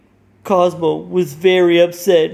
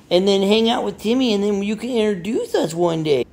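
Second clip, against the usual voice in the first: friendly Friend Bear; 6 semitones higher than usual. Acted. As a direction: invite them like a sweet little bear. Friend Bear voiced by child.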